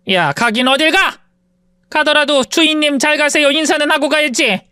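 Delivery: lightly voiced sneering rich woman; haughty rich woman. Rich woman taunts her former maid, mildly sneering. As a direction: look down on her with a lazy sneer.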